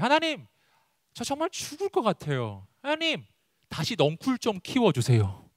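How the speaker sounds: high-pitched plea on the address; desperate prayer. Acted. Jonah begs God to regrow the vine, acted pleading. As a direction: beg God like a desperate man, high-voiced. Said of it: "요나의 이 당시의 이 기도를".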